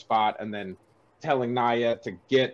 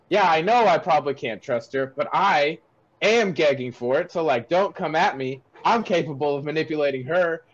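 mock snapping; 2 semitones higher than usual. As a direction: imitate a man snapping at his buddy. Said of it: "snaps at him".

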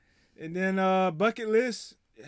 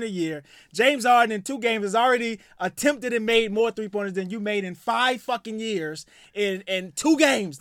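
worked-up rant; 3 semitones higher, 5 dB louder than usual. Real, not acted. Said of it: "get worked up".

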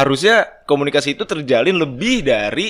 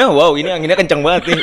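light mock weather-report delivery; a hint of a TV weather reporter; 3 dB louder than usual. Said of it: "Reporter cuaca".

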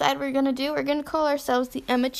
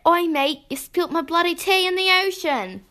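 amateur go at a British accent; badly faked British accent; attempted British accent; 3 semitones higher than usual. Shown as a demonstration. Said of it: "That was British".

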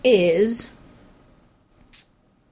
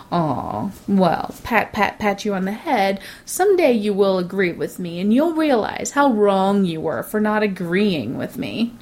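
condescending pity; 2 semitones lower than usual. Retold or imitated. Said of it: "in this sort of, like, mode of".

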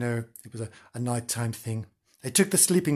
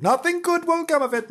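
ominous warning; 14 semitones higher than usual. Acted.

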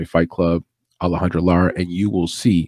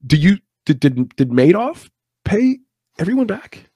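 incredulous high question; 10 semitones higher than usual. Real, not acted. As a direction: stretch it out in disbelief. Rhetorical disbelief about Madoff.

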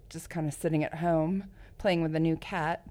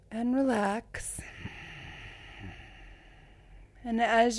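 guided meditation. Shown as a demonstration. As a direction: talk them gently into calm. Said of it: "why don't you do us a little, uh, guided meditation".

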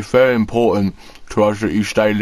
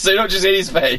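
laughing; 7 semitones higher than usual. Real, not acted. Laughing at headline.

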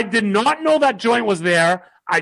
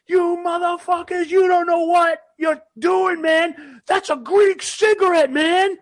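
put-on drunk angry shouting; 10 semitones higher than usual. Drunk guy yelling at bouncers over his cigarette, high furious shout. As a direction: scream it like you're sure you're right. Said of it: "And I'm like".

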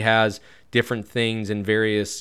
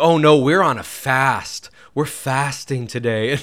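louder, slow, smug mock piety; a hammed-up holier-than-thou tone; condescending; 3 semitones higher, 6 dB louder than usual. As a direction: show off the fast with smug pity. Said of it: "kind of a condescending voice".

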